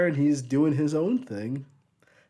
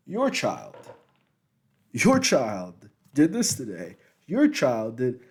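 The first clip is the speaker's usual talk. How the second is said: angry mother; 4 dB louder, slower than usual. Retold or imitated.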